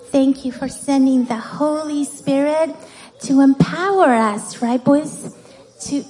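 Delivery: put-on earnest spoken prayer for children. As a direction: pray simply and warmly.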